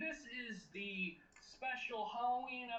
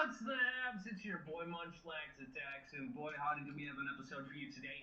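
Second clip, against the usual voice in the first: announcer intro. Acted. Host's announcer-style intro.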